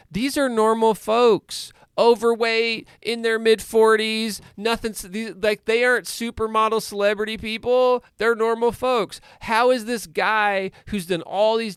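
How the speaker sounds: rising to an emphatic pitch; emphatic insistence. Real, not acted. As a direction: drive it home that they're ordinary folks. Insisting, raised voice.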